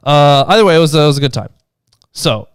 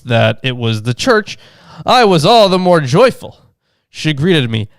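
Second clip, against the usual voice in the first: put-on measured reading of an old text; reading aloud. A narrator's reading. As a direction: read the vision out as narration.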